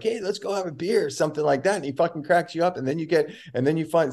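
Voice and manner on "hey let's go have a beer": friendly invite. Retold or imitated. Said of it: "where you're like".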